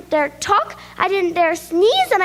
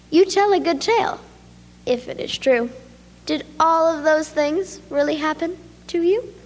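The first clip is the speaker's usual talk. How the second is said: smiling. Acted. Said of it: "Then she smiled and said".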